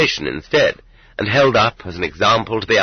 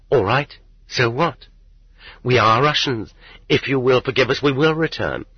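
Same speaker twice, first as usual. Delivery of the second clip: higher voice, lightly yearning; stirred longing; 5 semitones higher than usual. A narrator's reading. Yuri's stirred thoughts of going home.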